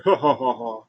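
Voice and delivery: mock laugh, spaced out and falling away; imitated villain laugh. Imitating Bray before the chokeslam, a put-on laugh.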